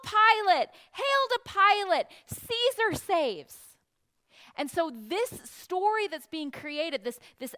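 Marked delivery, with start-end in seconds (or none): 0.0-3.6 loud, high triumphant chant; cheering crowd. Acted. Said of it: "crowd shouting and cheering".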